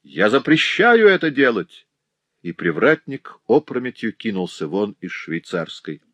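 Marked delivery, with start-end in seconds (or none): 0.0-1.9 jealous husband protesting; outraged protest. A narrator's reading. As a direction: forbid it with outrage. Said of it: "завопил он".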